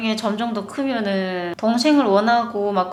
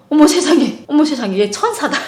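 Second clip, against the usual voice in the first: louder, higher, laughing delight; gushing delight; 5 semitones higher, 6 dB louder than usual. Retold or imitated. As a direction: gush over a sweet child. Mother gushing over boy. (감격해서 들뜬 목소리로)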